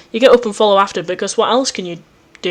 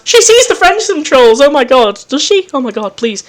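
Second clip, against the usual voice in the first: high, louder burst of delight; excited reaction; 4 semitones higher, 5 dB louder than usual. Real, not acted. Player reacting to the Friendsome trolls, excited. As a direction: burst out excited, then settle.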